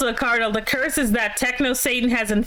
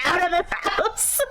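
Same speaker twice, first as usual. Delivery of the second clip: 1 voicing the cat; 8 semitones higher, slower than usual. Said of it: "He's like".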